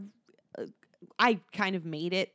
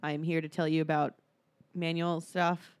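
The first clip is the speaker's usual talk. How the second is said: monotone voice; 3 semitones lower than usual. Retold or imitated. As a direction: drone like a dull instructor. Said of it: "Like that monotone voice".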